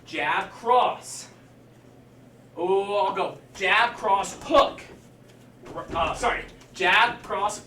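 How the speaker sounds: barking out each strike name; boxing coach calling combos. Shown as a demonstration. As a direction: coach demonstrating the combo aloud. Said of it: "Here's what I want you to do".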